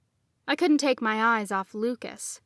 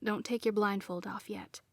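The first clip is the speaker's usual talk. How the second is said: unvoiced hushed warning; whisper; 8 dB quieter than usual. A narrator's reading. Lucas whispers to blindfolded Nadine, hushed. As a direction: breathe it softly. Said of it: "then said".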